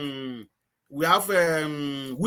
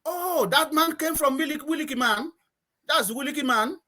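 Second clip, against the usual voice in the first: put-on high-pitched Antiguan village accent; villager's accent; 8 semitones higher than usual. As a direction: mimic an Antiguan villager spotting an outsider. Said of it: "talking to somebody from Willikis".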